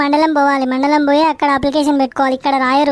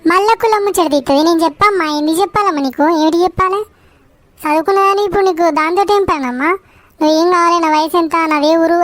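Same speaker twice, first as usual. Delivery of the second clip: put-on raised, exasperated old woman yelling at the clerk; shouting angrily. Old woman yelling at the pension clerk, an angry rant. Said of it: "ఎందుకు అట్లా అరుస్తున్నావు?".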